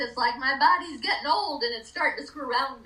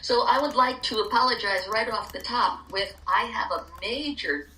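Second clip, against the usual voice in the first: talking with a dry mouth; tongue sticking, dry mouth. Real, not acted. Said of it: "my mouth is so dry".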